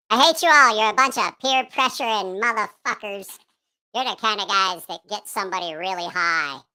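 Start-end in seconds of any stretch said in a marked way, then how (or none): 0.1-3.4 mock outrage. Real, not acted.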